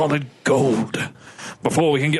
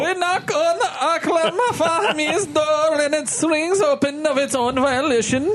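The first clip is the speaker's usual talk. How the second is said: put-on Arab accent; 12 semitones higher than usual. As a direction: narrate in a hammy Arab accent. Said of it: "I wanna hear your Arab accent".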